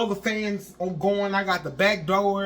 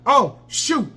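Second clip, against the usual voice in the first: retold panic; 5 semitones higher, 6 dB louder, slower than usual. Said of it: "That's all I could say".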